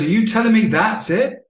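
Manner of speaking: lightly voiced client, stunned; incredulous realisation. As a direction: let the client's realisation land.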